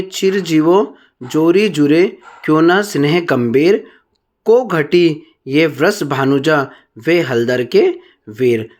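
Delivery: slow, measured recital of poetry; verse recitation. Shown as a demonstration. Teacher reads a verse example to students, slow recitation. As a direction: recite the verse slowly, phrase by phrase.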